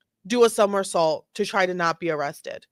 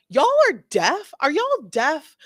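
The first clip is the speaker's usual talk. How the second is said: loud and high, mock disbelief; exasperated; 5 semitones higher, 4 dB louder than usual. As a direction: scold like she's hopeless. Mock cop scolding the shoplifter.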